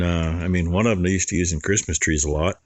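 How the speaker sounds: normal talking voice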